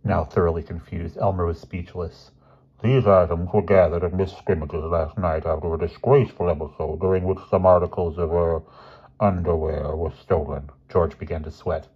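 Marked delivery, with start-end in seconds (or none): 2.8-10.7 lightly voiced grave headmaster; formal, measured disapproval; stern headmaster. Headmaster laying out evidence to two boys, lightly stern.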